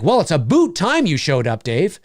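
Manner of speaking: stereotype Canadian accent with OO in "boot"; mock Canadian "a boot". Shown as a demonstration. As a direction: put on a fake Canadian accent. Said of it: "I've never heard that".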